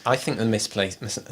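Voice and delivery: tripping over the word and breaking off; tongue-tied stumble. Real, not acted. Co-host arguing about track order gets tongue-tied. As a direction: fumble the long word, then give up. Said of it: "I can't speak".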